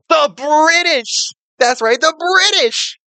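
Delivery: slow, high hammed-up proclamation; dramatic announcer reveal. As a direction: boom it out like a game-show host revealing the villain.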